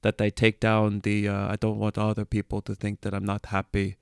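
put-on Danish accent, even pitch. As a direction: imitate a Dane speaking English. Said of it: "that's my best Danish accent".

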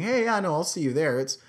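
Eastern saying. Retold or imitated. Comic quoting an out-east goodbye, lightly imitated Eastern accent. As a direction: run it together like an easterner. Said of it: "it's a more of an Eastern saying".

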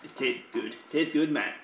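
eating while talking; mouth full. Real, not acted. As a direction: talk through a mouthful of chocolate. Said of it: "I'm just eating cream egg right now".

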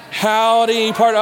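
playful West Texas cowboy greeting; West Texas accent. Shown as a demonstration. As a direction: call it out in a West Texas twang. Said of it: "in the best West Texas slang accent you can come up with".

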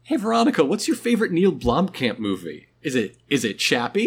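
high, bright mock quiz host; teasing quiz voice. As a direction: needle her with a jokey question. Acted question to Veronica.

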